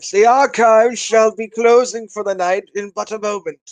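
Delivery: a hint of a stuffy old archivist; lightly voiced old man, formal. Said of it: "I gotta really sell the old".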